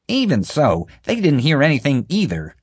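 high, pleading female character voice; pleading woman. A narrator's reading. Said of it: "Marge pointed out".

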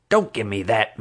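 a curt snap from a suspicious guard; snapping. A narrator's reading. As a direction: cut him off short. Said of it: "Marge snapped".

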